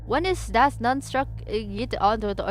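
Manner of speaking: stumbling attempt at reading mock German. Shown as a demonstration. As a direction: sound out German words haltingly. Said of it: "it's not a bad accent. It's just German".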